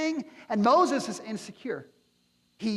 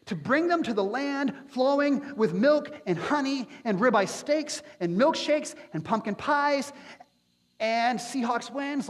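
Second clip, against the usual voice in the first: playful embellishment; 6 semitones higher than usual. Acted. Joking additions to scripture reading.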